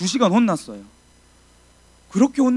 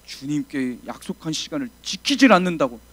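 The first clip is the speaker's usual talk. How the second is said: usual speaking voice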